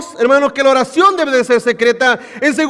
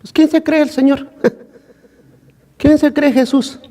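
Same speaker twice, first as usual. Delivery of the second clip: proud indignation; 5 semitones higher than usual. Retold or imitated. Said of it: "diría".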